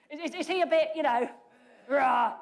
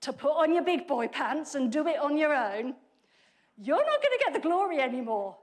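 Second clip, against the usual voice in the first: louder, scornful taunt; mocking put-down; 3 dB louder than usual. Preacher voicing the harsh translation as a scornful taunt to Barak. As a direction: sneer at him for not being man enough. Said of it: "it sounds like saying".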